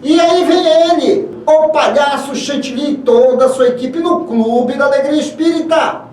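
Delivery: excited announcement. Acted. Host announces the clown show.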